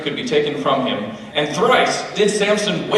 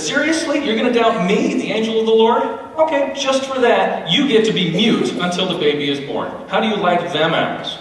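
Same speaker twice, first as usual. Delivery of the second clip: sassy angel; 5 semitones higher than usual. Acted. Angel scolding Zechariah.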